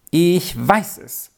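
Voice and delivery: pleased to have the answer; delighted cry. A narrator's reading. Rolf thinks he has solved the riddle, delighted. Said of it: "rief Rolf jetzt erfreut".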